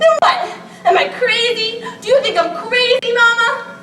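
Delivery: half-laughing, half-crying demand; pushing her with a teary laugh; laughing through tears. Acted. Bella pressing her mother hard.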